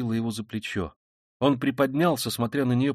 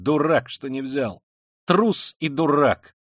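jeering; 3 semitones higher, 5 dB louder, slower than usual. Acted. Imagines others jeering at him.

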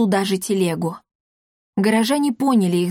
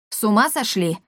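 indignant. Acted. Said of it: "возмутился Мартихай".

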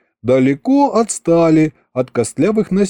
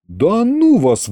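sulky grumble; 7 semitones higher, slower than usual. A narrator's reading. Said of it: "пробурчал я".

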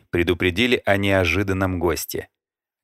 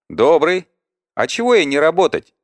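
put-on high, lively young woman; chirpy girl, much higher and louder; cheerful girl voice; 10 semitones higher, 5 dB louder than usual. A narrator's reading. Librarian girl answering cheerfully.

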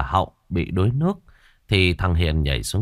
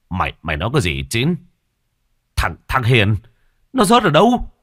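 shocked alarm; 3 semitones higher, 4 dB louder than usual. A narrator's reading. Captain demanding where the boy fell, alarmed. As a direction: stumble over words, then cry out.

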